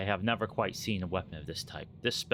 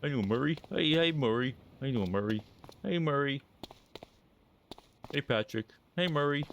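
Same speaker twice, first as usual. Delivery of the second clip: cheery greeting voice; 7 semitones higher than usual. Pretend.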